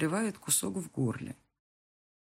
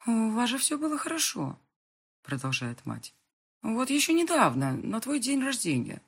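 disbelief; 7 semitones higher, 3 dB louder than usual. A narrator's reading. Mother in disbelief.

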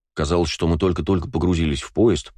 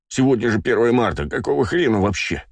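возмущённо; 5 semitones higher than usual. Acted. Возмущение холодом на перроне.

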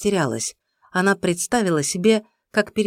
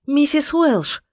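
громко, высоко, в отчаянии; зови её в отчаянии; отчаянный зов; 10 semitones higher, 4 dB louder, slower than usual. A narrator's reading. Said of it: "в отчаянии звала она". (отчаянный крик)

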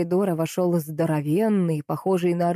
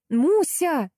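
shriek; 9 semitones higher than usual. A narrator's reading. The narrator shrieks for the lost puppy. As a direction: shriek the name. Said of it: "завизжала я".

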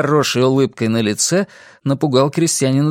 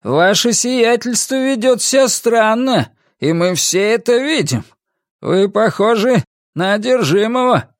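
high, emphatic challenge; defiant, unafraid; 9 semitones higher than usual. A narrator's reading. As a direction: accuse your lord without fear. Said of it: "Страха в его голосе не было, лишь вызов".

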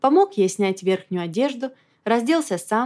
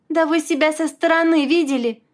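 high, louder raging question; storming; 8 semitones higher, 4 dB louder than usual. A narrator's reading. Wife storming at her blind friend, raging. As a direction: rage at him. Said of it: "бушевала Глашка".

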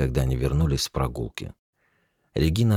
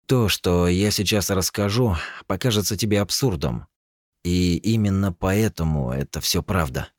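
slow, careful; 5 semitones higher than usual. Acted. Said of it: "Он говорил медленно".

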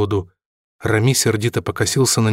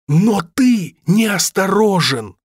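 high, slow desperate outburst; in despair; 10 semitones higher, 3 dB louder, much slower than usual. A narrator's reading. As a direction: fling it out in desperation. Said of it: "в отчаянии бросил Робин".

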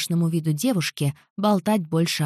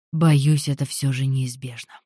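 sinister voice; 5 semitones lower than usual. Acted. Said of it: "Раздался зловещий голос".

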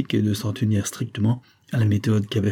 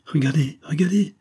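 rising, higher cry of shocked wonder; strange cry; 5 semitones higher than usual. A narrator's reading. James cries out to the doctor over the dead wife, strange and rising. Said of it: "Il cria d'une voix étrange".

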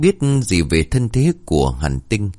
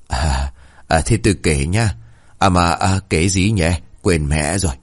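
a doddering grandpa losing his thread; trailing old man's voice; forgetful grandpa; lightly voiced forgetful old man.

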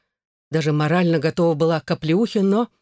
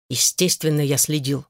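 through gritted teeth; 2 semitones lower than usual. A narrator's reading. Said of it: "процедил сквозь зубы Тигран".

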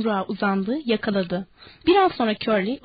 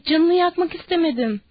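distressed cry; 6 semitones higher than usual. A narrator's reading. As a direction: plead innocence in a high voice. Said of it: "diye bağırdı Danny". (tiz sesle, yalvaran itiraz)

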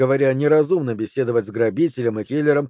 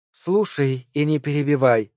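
seductive lover's tone; 2 semitones higher than usual. Acted. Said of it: "говорил тоном любовницы".

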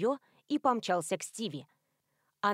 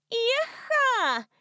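very high, loud yee-ha; drunken whoop; 13 semitones higher, 5 dB louder than usual. A narrator's reading. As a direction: whoop it out like a cowgirl.

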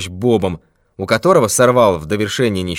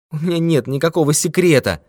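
higher, whining denial; plaintive; 5 semitones higher than usual. Acted. Old miser whines to the thief, plaintive. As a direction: plead that you have nothing. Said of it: "снова жалобно заговорил".

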